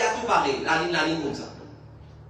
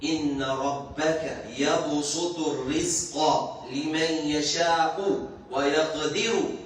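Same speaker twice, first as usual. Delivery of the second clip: careful recitation; 3 semitones lower, much slower than usual. Shown as a demonstration. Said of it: "sans aucune faute voyelle".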